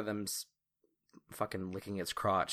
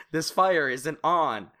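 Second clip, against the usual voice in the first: slow, mock-earnest comic strip line; boomer comic voice; 7 semitones higher, 8 dB louder, slower than usual. GM mocking the unlit fire like a boomer comic, slow and higher. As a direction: read it like a dumb boomer comic caption. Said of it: "like one of those boomer comics".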